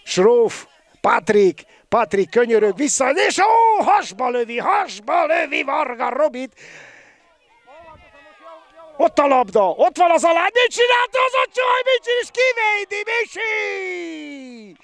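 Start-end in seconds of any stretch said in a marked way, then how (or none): 3.1-14.8 high shouted commentator call; excited sports commentary. Real, not acted. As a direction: yell the play as it happens. Shot and save, live call.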